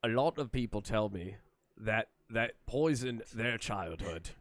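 out of the side of the mouth, slow; lopsided slurred impression, talking sideways; Tim Curry stroke voice. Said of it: "that was my Tim Curry stroke voice".

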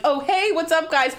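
high-pitched casual hello; awkward overfriendly greeting. Retold or imitated. Caught by coworkers at Chili's, overfriendly hello. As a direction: cover embarrassment with a high, breezy greeting.

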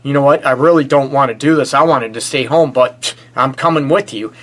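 half-hearted pouty grumble; whiny and pouty. Retold or imitated. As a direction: whine it like a sulky partner doing a favour. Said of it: "to be whiny and pouty and say".

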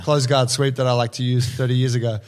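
put-on a light Brazilian accent, starting to laugh; a trace of a Brazilian accent breaking into laughter. The instructor's line finished in a faint Brazilian accent, laughing. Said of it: "I didn't mean to say that with a Brazilian accent".

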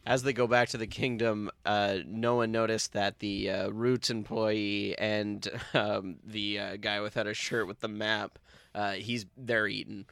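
distant, tinny speakerphone sound; phone speaker. Real, not acted. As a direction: voice coming through a phone speaker. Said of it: "you're on speakerphone".

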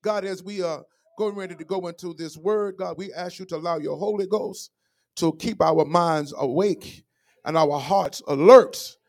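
measured church prayer, lifting at the end; earnest prayer. Real, not acted. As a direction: ask God earnestly, phrase by phrase. Closes the prayer.

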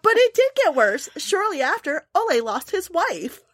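high mock-dramatic quote voice; quoting him. Host retelling a dark line, in a high mock voice. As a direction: read it like a creepy announcer. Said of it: "He's all like".

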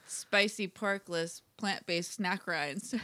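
slow words through a numb tongue; numb mouth. Real, not acted. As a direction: mouth numbed by spice, slurring. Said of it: "Just rolls off the tongue".

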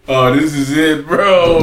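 mock fed-up man. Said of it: "He was like".

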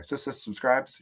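mock glitch on "Sis, sis subscribes"; imitated stutter. Shown as a demonstration. Host replaying own slip, mock stutter on "subscribes". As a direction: repeat "Sis, sis" like a stuck robot before "subscribes". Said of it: "what was that?".

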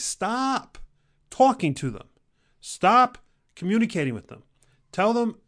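high, loud, forceful command; pleading loud push to cut them off; emphatic shout. Real, not acted. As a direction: yell it like a fired-up coach. Urging listeners to cut negativity.

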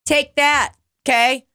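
high-pitched defiant rant; exasperated, combative retort; indignant comeback. Retold or imitated. Ranting back at customers.

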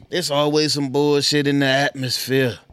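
loud, lightly imitated rapper voice; impression of a rapper. Repeating a rap catchphrase to the audience, light rapper imitation. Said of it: "trying to get my rapper voice on".

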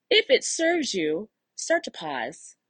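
calm coach easing a client into a pause. Shown as a demonstration. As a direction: guide the client gently and slowly. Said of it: "put my coach hat back on".

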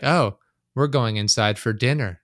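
flat, slow, emotionless cult member; monotone cult voice. Retold or imitated. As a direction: drone it out like a creepy cultist. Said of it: "That monotone voice, like a cult person".

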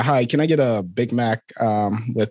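casual American accent ordering fast food; Scottish speaker putting on an American accent. Shown as a demonstration. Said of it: "you are an American at a McDonald's and you're ordering".

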